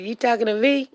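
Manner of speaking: lightly voiced dog, half-hearted tough guy; a light hint of a tough talker; mock dog voice. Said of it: "Shook said".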